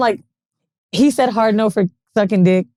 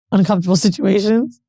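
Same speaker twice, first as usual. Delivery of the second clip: usual speaking voice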